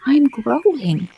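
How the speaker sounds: put-on high, slow, timid girl voice; meek Alice. A narrator's reading. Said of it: "said Alice very meekly".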